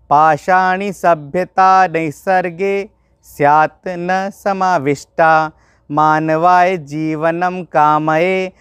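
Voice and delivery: slow, rhythmic Sanskrit shloka recitation; verse recitation. Shown as a demonstration. Teacher reciting the last shloka to the class, slow and rhythmic. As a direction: chant the verse slowly and evenly.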